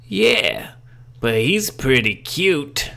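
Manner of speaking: high, slow coy purr; flirty woman voice. Acted. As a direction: tease it like a flirt. Large Marge flirting about Bill.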